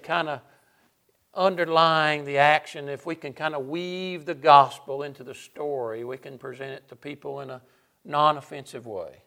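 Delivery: mock-enthusiastic church pitch, lightly sarcastic. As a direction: pitch the scheme with dry, understated sarcasm. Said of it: "the sarcasm in my voice".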